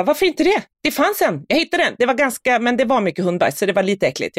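put-on a touch of a puzzled boy explaining; indignant kid son. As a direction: defend the find like an innocent kid. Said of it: "Han bara".

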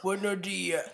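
lightly voiced silly customer. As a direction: play a clueless customer at the counter. Acting a customer at the counter.

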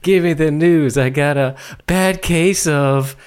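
slow, lightly imitated reviewer delivering a pun; self-satisfied reviewer. Imitating a film reviewer's pun for co-hosts, slow and pleased. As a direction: draw out the punchline as if it's a good one. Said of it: "he's got a good one. And he goes".

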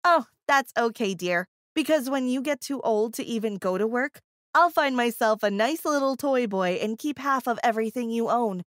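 snarky. Retold or imitated. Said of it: "with her usual snark".

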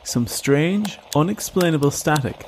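"strange, unexplainable static" slowed and weighted; stress on the static. A narrator's reading. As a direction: lean on "unexplainable static" as the big mystery. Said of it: "you put the emphasis on the wrong part".

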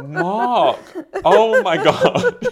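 loud, high appalled exclamation; scandalised, high-pitched yell at a partner; appalled cry. Retold or imitated. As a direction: call out in mortified disbelief, drawing out the last words. Mortified reaction at partner screaming.

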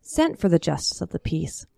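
put-on lively old-time storyteller voice; story narration. A narrator's reading. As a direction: tell it like a tall cowboy tale.

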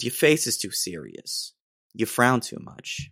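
a light New Jersey accent imitating mom; a faint New Jersey accent as his nagging mom. Son imitating his mom's nagging in a light New Jersey accent. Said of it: "I do it in a Jersey accent sometimes".

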